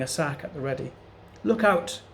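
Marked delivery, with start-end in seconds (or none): 1.4-2.0 high, loud shout of alarm; yelled warning. A narrator's reading. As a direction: yell it to warn the parrot. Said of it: "he yelled".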